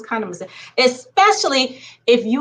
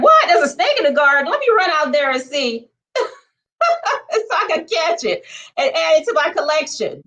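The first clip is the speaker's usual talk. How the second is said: higher, quick and eager, a laugh slipped in; eager snake lover; 6 semitones higher than usual. Retold or imitated. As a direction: gush like someone who collects snakes. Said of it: "they're like".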